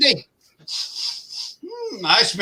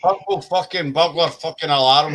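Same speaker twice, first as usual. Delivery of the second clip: defiant tongue twister; 3 semitones lower than usual. Shown as a demonstration. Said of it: "How's that?".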